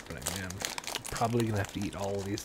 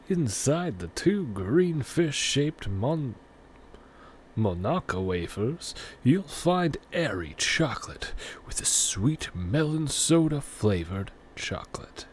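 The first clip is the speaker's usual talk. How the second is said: whispery ad read; 4 semitones higher, 5 dB louder, slower than usual. Acted. Reading the product card.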